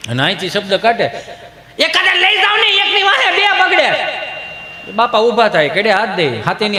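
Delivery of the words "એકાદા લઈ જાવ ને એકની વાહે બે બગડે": very high, stretched-out comic holler; hammed-up household nag in a squeal; shrill complaint. Household member complaining about the children, shrilly. Acted outburst inside household scene.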